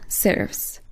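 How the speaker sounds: breathy whispered heading word. Shown as a demonstration. Course teacher announcing a font group, whispered. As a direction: whisper serifs as a soft announcement.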